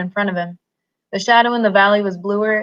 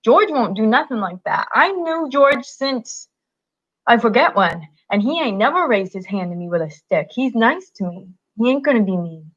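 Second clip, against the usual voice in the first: belligerent retort; 3 semitones higher than usual. Acted. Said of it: "retorted belligerently".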